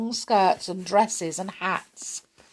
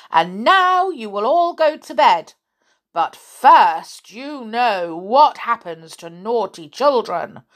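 put-on bossy old woman; 3 semitones higher, 5 dB louder than usual. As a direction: bark orders like a fierce old lady.

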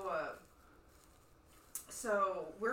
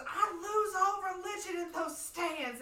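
grandma voice; 9 semitones higher, 3 dB louder, slower than usual. Retold or imitated. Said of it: "she goes".

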